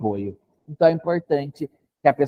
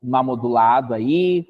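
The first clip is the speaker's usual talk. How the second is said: slow modulated tone; 3 semitones lower, slower than usual. Shown as a demonstration. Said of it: "Vou usar, então".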